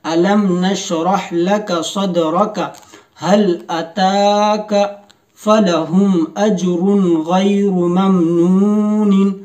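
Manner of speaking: slow, chanted tajweed reading; slow melodic verse recitation; Quran recitation. Shown as a demonstration. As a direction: recite each word stretched and measured.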